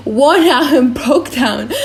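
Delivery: slow, words dissolving into laughter; cracking up; breaking into laughter. Real, not acted. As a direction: lose it on the last words.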